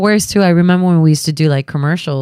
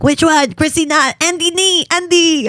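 confused; 10 semitones higher than usual. Retold or imitated. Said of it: "I had a little brain fart of, like".

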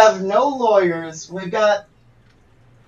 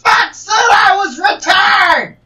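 angry shout; 2 semitones higher than usual. Acted. Wrestler bursts in angrily.

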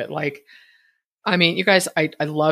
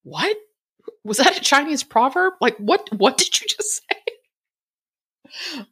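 son's bafflement; 9 semitones higher, slower than usual. Retold or imitated. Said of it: "he's all".

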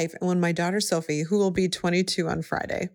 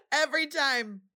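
quieter tearful repeat; 7 semitones higher than usual. Real, not acted. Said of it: "I'm choking up every time".

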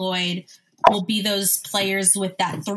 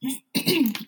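throat clearing; 4 semitones higher than usual. Real, not acted. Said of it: "oh my gosh, I'm sorry".

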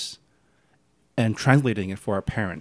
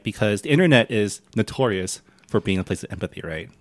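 sarcastic. Acted. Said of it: "I'm being sarcastic".

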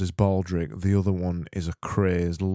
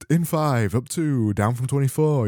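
DJ impression. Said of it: "Remember when he used to do that".

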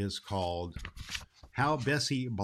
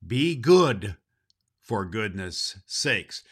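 Santa's saying; 7 dB louder, slower than usual. Pretend. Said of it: "to hear Santa Claus say".

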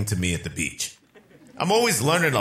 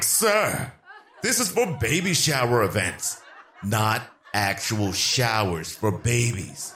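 lightly voiced lady; slower than usual. Lady correcting the comedian.

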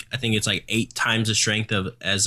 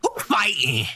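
soundboard drop; 4 semitones higher than usual. Pretend. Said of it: "that's a soundboard".

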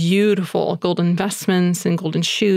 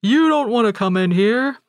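higher, slow, timid voice of a poor father; a poor father turning a visitor away, higher and slow; humble poor father; 5 semitones higher, slower than usual. Retold or imitated. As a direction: shrink back, ashamed of your house. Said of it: "And the dad replies".

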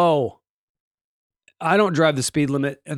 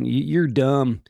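put-on Southern accent; 2 semitones lower than usual. Mocking listener telling the host he's dumb, in a Southern accent. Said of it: "I don't know why I go to that accent".

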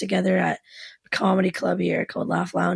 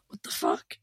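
voice gone; 6 dB quieter than usual. Retold or imitated. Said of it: "I lost my voice somehow".

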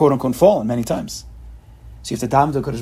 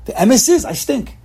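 higher, louder mock self-put-down; imitating yeshiva guys; 8 semitones higher, 3 dB louder, slower than usual. Rabbi imitating how yeshiva guys talk to themselves, mocking. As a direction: mimic the gloomy yeshiva boy. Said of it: "that's how they speak".

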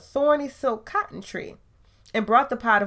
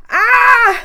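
high, loud startled "Ah!"; surprised cry; 15 dB louder than usual. Acted. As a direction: yelp it out in sudden surprise. Anansi feels a tug.

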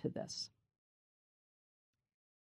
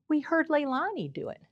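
ordinary delivery

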